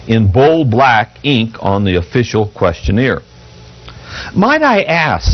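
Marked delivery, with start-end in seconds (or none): 4.3-5.3 slow, higher curious ask; interested. A narrator's reading. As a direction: lean in with fresh curiosity. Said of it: "said the clerk with new interest".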